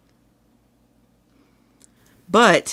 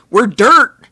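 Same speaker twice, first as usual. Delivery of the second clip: mock humble; 6 semitones higher, 10 dB louder than usual. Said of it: "be like".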